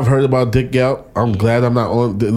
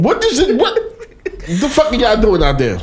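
yelling out; 12 semitones higher than usual. Real, not acted. Shouting at people outside.

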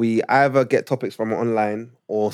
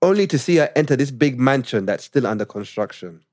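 put-on Ugandan accent; 3 semitones lower than usual. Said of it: "when I read it in Ugandan accent".

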